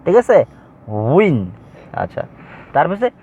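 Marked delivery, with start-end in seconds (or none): 1.2-1.4 উইন as one syllable "win", starting on a rounded w; careful waw pronunciation. Shown as a demonstration. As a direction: demonstrate the w glide in উইন. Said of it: "তো এটার উচ্চারণ হচ্ছে". (উইন-এর শুরুতে ওয়াও-এর স্পষ্ট উচ্চারণ)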